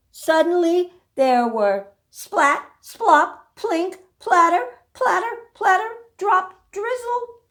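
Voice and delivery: high, bouncy sound words; playful rain words. A narrator's reading. Reader sounding out the rain. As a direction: make each raindrop pop.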